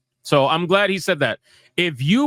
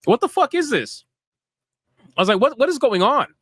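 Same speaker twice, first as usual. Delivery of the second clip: incredulous outburst; 5 semitones higher than usual. Retold or imitated. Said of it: "I'm like".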